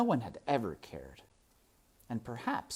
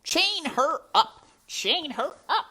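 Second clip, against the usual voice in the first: slow, high, very loud command; shouting; 12 dB louder than usual. A narrator's reading. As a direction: bellow the order, word by word. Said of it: "shouted Roscoe".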